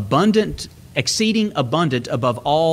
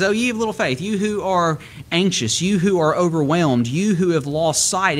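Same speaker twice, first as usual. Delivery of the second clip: gentle, not condemning; 4 semitones higher than usual. Retold or imitated. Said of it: "he's not condemning here".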